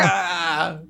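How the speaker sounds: high, drawn-out mock "ah"; imitated scream. Co-host joining the Bruno imitation, high mock scream. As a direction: echo the scream without extra volume. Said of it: "Bruno just shouting".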